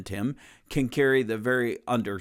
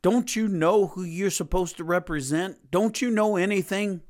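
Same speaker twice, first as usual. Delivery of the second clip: higher, rising mock tirade at the disciples; mock screaming rant; 6 semitones higher than usual. Preacher imitating a scolding leader yelling at disciples, mock rant. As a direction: rant at them in a hammed-up scold. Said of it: "go screaming at his disciples saying".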